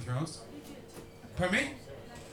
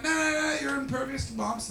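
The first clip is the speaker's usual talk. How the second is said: mock dismissive reassurance; 11 semitones higher than usual. British brushing off the troops' worry.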